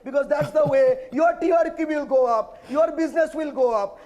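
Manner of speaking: slow, stretched-out shouted taunt; shouting. Real, not acted. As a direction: shout it slowly, word by word. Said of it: "I love shouting on your channel".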